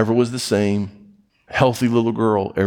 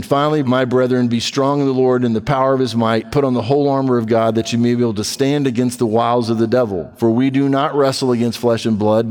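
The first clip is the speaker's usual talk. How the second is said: proclaimed scripture; 2 semitones higher than usual. Acted.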